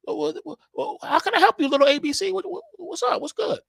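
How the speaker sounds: high, teasing falsetto; cocky fan. Acted. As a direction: play it smug, with a laugh on little A B C. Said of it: "you're like".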